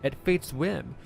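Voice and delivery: earnest dramatic declamation; impassioned sage. Acted. Sage arguing his duty to save lives, impassioned. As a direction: declaim it like a moral creed. Reads game character dialogue.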